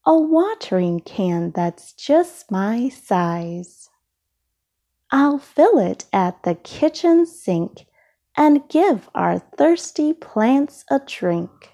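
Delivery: lively, sing-song picture book reading; reading to children. A narrator's reading. Reading a rhyming book aloud to young listeners, lively and sing-song. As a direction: read it like bedtime story time for little ones.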